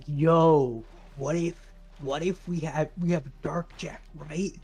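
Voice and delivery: hushed lazy stoner musing. Retold or imitated. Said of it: "like, stoner voice".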